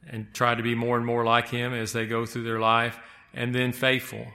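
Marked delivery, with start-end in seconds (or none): 3.3-4.3 and then FAITHFUL, weight on "faithful"; stress on faithful. Shown as a demonstration. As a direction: hit the word "faithful". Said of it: "I wanna really emphasize that word faithful".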